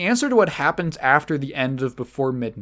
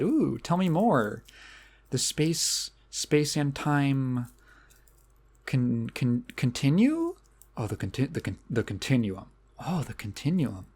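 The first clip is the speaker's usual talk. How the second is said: slow, softer, mock-dim French-tinged American accent, fumbling the big word; French actress's American accent; 4 dB quieter, slower than usual. Reviewer imitating a French actress feigning interest in time travel. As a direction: stumble over continuum, French woman playing an American airhead. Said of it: "a French person doing an American accent".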